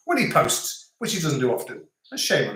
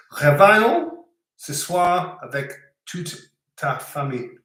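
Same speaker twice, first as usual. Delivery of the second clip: halting French read-out. Real, not acted. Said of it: "I'm gonna pronounce this wrong".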